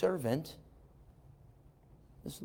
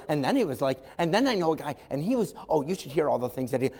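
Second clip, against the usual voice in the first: gossipy chatter; faster than usual. Acted. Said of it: "Maybe she's the typical little".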